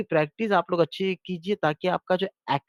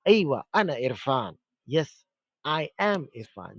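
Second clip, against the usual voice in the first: slow answer; 2 semitones lower, slower than usual. Shown as a demonstration. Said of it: "तो आप कहें".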